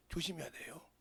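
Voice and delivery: whispered low, like a secret caution; hushed warning. Real, not acted. Pastor whispering a warning to the congregation about deceivers.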